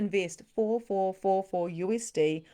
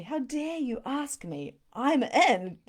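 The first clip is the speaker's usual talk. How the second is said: higher, slower mock outrage turning keen; mock indignant; 6 semitones higher, 3 dB louder, slower than usual. Recalling a student's reply, she plays mock outrage. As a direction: play affronted, then eager. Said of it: "that was so the energy".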